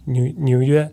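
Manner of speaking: 纽约 repeated carefully in Mandarin, niǔ yuē, after the teacher; repeating Chinese word. Shown as a demonstration. Learner repeats the Mandarin for New York, carefully copying. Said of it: "how do you say New York?".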